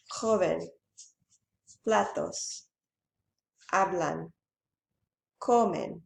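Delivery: "Mesa", "Mochila", "Libro", "Hombre", "Joven", "Platos", "Hablan", "Comen", each stressed on the second-to-last syllable; isolated example words, next-to-last syllable stressed from "Mesa" to "Comen"; penultimate stress. Shown as a demonstration. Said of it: "stress on second to last syllable".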